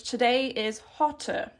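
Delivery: today is hotter, spoken slowly and evenly; slow model sentence. Shown as a demonstration. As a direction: lay out today is hotter word by word for learners. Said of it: "we would probably say in English".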